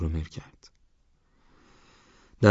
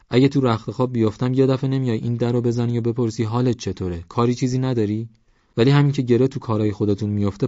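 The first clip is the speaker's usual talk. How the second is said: lightly acted exasperated villager, lively pitch; exasperated Madineh; 4 semitones higher, 4 dB louder than usual. Madineh tells Sarkhan to stop bothering them, mildly exasperated. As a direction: argue back, mildly fed up.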